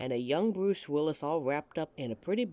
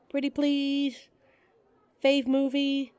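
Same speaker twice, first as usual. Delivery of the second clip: pleading; 8 semitones higher, slower than usual. Acted. Coaxing the listener to answer.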